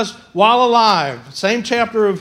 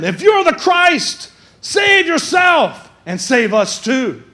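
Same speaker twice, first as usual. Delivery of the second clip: criminal's taunt; 4 semitones higher, slower than usual. Acted. Criminal mocks Jesus, slow shouted taunt.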